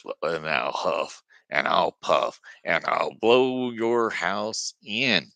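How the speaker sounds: slow, menacing wolf drawing out the threat; threatening wolf. Acted. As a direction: lean into each word like a big bad wolf.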